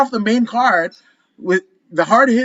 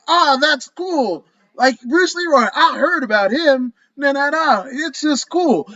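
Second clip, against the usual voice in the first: crowd reaction; 5 semitones higher than usual. Retold or imitated. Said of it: "everybody was just like".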